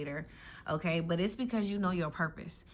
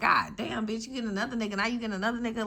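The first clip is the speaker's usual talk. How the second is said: higher-pitched mock envy, half-laughing; mock jealous friend; 4 semitones higher, faster than usual. Jealous friend to a lucky one, higher mock envy. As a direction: play the jealous friend gasping at a new house. Friends envying your upgrades.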